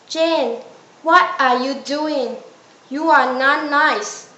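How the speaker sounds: half-hearted mock shout of a telling-off; mild retold shout. Math teacher shouting at Jane over her phone, mild retold shout. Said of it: "She shouted at me".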